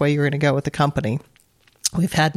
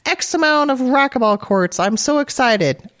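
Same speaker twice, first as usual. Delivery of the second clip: imitating him, pitched way up and gushing; playful high-pitched impression of an overjoyed salesman; excited husband; 9 semitones higher than usual. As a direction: mimic her husband bubbling over with a big sale, much higher. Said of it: "Brian's all excited because he's like".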